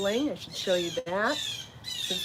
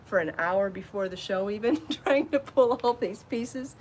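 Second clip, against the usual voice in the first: panting while talking; out of breath. Real, not acted. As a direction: talk through heavy breathing. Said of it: "I don't know why I'm panting".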